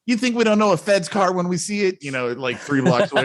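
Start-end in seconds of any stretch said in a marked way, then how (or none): 0.1-2.0 mock bank robber. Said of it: "And they're like".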